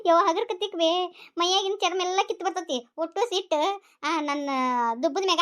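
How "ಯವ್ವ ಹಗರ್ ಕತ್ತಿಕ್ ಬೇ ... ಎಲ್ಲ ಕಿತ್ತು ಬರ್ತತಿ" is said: laughing. Acted. Son teased by his mother, calling her through laughter.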